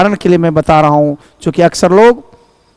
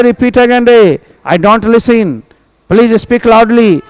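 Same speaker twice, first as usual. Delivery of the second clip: rude rustic demand; 3 semitones higher, much slower than usual. Shown as a demonstration. Teacher mocking a rude student's demand, brusque and rough. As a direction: show the crude way to ask someone to repeat. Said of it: "ये नहीं ठेठी में बोलोगे".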